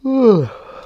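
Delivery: long open-mouthed yawn; big yawn. Real, not acted. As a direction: let out a loud yawn. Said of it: "Excuse me, big yawn".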